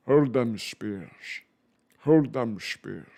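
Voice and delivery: slow, drawn-out Scottish command; Scottish burr, very slow and heavy; Sean Connery Scottish. Shown as a demonstration. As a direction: Sean Connery growling an order. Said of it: "I can do it like a, a Sean Connery".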